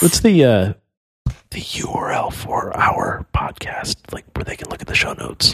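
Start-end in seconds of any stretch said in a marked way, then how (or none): 1.5-5.5 whispering. Real, not acted. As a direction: whisper the question, unhurried. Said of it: "Why are we whispering?".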